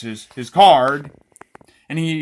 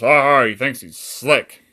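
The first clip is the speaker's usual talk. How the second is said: put-on loud, rough-and-ready Romanian accent; attempted Romanian accent; 4 dB louder, slower than usual. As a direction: taunt the victim in a hammy Romanian accent. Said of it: "I don't know if that's how Romanians talk".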